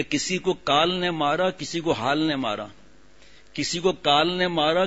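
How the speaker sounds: slow, measured recital of a couplet; slow sermon-style recitation of verse. Acted. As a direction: draw each line out like a recited poem.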